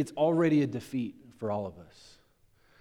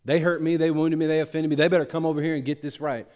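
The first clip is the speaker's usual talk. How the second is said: indignant grudge; faster than usual. Retold or imitated. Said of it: "So often we go".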